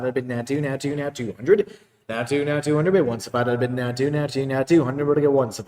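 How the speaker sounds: rapid rolling bid chant; auctioneer. Acted. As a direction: rattle off the bids like an auctioneer.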